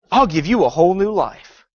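sly serpent hiss. Retold or imitated. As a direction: let the snake hiss through it. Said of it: "hear the hiss of a serpent".

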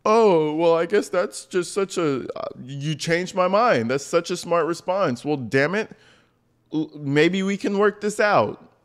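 mock a woman won over too easily; hammed-up sarcastic swoon. Mocking Sarah's swooning answer.

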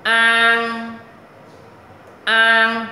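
"An" loud, high and held long; open-mouthed, throaty AN. Shown as a demonstration. Teacher models "An" for learners, mouth wide open. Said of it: "Khoan miệng mở lớn lên".

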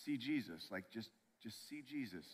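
soft, gentle nudge; gentle urging. Acted. Holy Spirit gently nudging an unbeliever toward Jesus, gently. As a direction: quietly urge someone toward Jesus. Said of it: "he just gently says".

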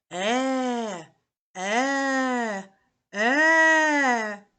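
a mild bear roar that builds to the last "е". Acted. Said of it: "І чутно в лісі темнім". (легкий рев ведмедя, що наростає)

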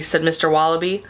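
usual speaking voice

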